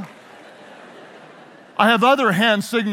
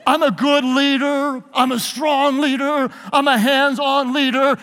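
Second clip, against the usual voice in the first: mock boastful leader; 3 semitones higher than usual.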